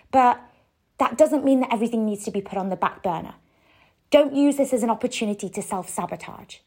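mildly hammed-up nagging inner critic; pushy ego voice. Ego pushing tired pregnant her to work, mock aggressive. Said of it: "aggressive sort of motivating way".

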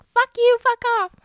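hammed-up high, loud yell; angry outburst. Heroine refusing her ex's favor at the door, angry yell. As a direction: yell it way up high in mock fury. Acting Maddie's refusal to Chase.

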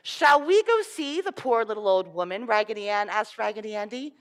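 put-on lively storybook reading for children; story reading. Reading a fairy tale aloud to children.

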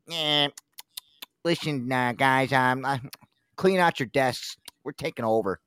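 lightly voiced tough bulldog enforcer; slow, muscled-up mob enforcer; bulldog guy voice. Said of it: "like, the bulldog guy".

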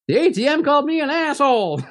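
high-pitched dopey movie accent impression; Keanu Reeves. Film fan quoting Stephen King's cameo at the cash machine, Keanu Reeves accent. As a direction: say it high, in a little put-on accent. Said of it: "He says it in this, like, in this little Keanu Reeves accent".

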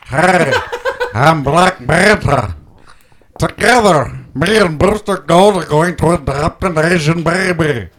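through a scuba regulator. Pretend. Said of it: "he sounds like he's trying to talk underwater".

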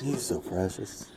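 low, soft creeper voice; R. Kelly. Retold or imitated. Mock R. Kelly cooing to a girl, creepy. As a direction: drop it low and quiet like a creep. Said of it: "hear him in that fucking creeper voice".

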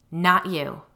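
loud, firm, held steady; controlled steadiness. A narrator's reading. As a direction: hold your voice steady against the threat. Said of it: "trying very hard to keep my voice steady".

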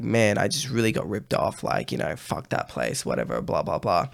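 low, soft grumbling under the breath; muttered to self. Retold or imitated. Walking off ripped off, muttering low and soft to himself. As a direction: grumble it quietly to yourself as you walk away. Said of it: "I was like".

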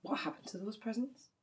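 gentle whispered question. Real, not acted. Sister whispers a tender question about Mam's presents. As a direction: ask it softly, barely voiced. Quiet question after the sad story.

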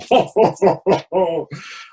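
hearty mock pirate laugh; pirate belly laugh. Shown as a demonstration. Therapist shows clients the pirate laugh, hearty.

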